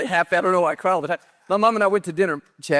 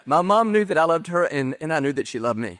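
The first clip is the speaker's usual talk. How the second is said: tearful; 4 dB louder than usual. Real, not acted. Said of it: "through tears".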